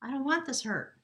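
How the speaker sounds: high, pleading plea to a distant partner. Pretend. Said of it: "you asking your partner".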